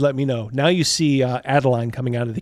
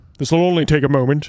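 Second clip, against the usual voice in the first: put-on sinister nobleman voice, louder; 2 semitones higher, 4 dB louder than usual. Voicing a captain who grabs a player's arm: Christopher Lee voice. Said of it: "in his best, uh, you know, Christopher Lee".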